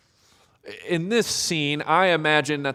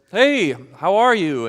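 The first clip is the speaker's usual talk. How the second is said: casual greeting; 4 semitones higher, 5 dB louder than usual. Retold or imitated. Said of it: "someone comes up to you and says".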